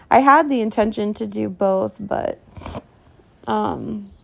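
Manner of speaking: talking with a runny nose; stuffy, nose running. Real, not acted. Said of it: "sorry, my nose is running".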